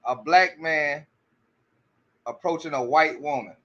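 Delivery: each word dragged out slowly; slow and deliberate, repeating her exact words; slow quote. Retold or imitated. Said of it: "She said".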